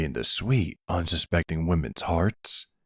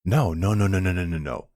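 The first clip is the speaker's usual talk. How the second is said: hasty reassurance. Acted. Kidnapper to captive, we're not gonna kill you, hasty reassurance. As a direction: cut in quickly to calm a panic.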